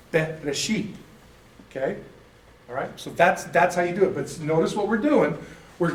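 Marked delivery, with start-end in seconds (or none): 0.1-0.9 Be, re, she as clean separate syllables; syllable reading. Shown as a demonstration. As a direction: read the three syllables. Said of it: "those three letters with their vowels then are".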